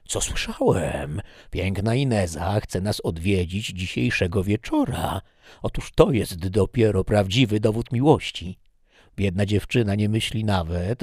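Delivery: a hint of a scheming servant who takes charge; eager meddler Busqueros. Busqueros telling Don Lopez he will handle everything, eagerly.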